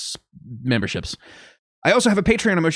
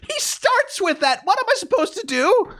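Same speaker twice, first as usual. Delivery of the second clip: very high, helpless complaint; exasperated protest; 13 semitones higher than usual. Real, not acted. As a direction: protest helplessly, pitch shooting up. Defends own bad accent, exasperated.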